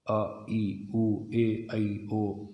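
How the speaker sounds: each vowel अ, ई, उ, ए, ऐ, ओ given on its own; teacher reading out अ ई उ ए ऐ ओ; vowel recitation. Shown as a demonstration. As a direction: recite the vowels one by one for a pupil. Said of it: "सबका उच्चारण बताओ".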